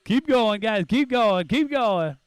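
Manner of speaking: loud urging cheer; hoarse marathon cheering. Real, not acted. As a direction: urge the racers on. Cheering racers on.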